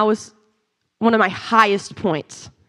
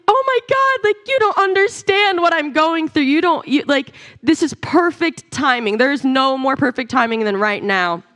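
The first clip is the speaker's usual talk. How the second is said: retold sobbing; 6 semitones higher than usual. To the prayer chaplain on the phone, retold sobbing. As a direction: retell a breakdown in a high, pleading voice. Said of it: "I break down sobbing, uncontrollably".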